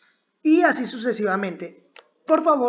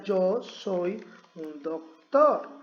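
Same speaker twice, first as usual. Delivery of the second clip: slow correct version; 2 semitones lower, much slower than usual. Shown as a demonstration. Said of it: "la traducción sería".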